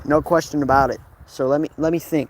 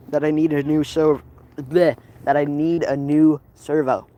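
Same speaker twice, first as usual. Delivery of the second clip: talking around gum; words slurred by chewing gum. Real, not acted. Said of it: "I have gum in my mouth".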